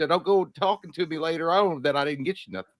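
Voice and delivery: folksy Southern husband to his honey; lightly hammed-up Southern accent; put-on Southern accent. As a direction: play a Southerner making a dinner suggestion. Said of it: "once you get down in that Southern accent".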